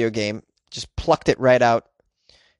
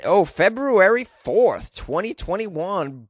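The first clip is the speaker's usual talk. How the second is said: excited reveal; 6 semitones higher, slower than usual. Acted. Excited reading of date.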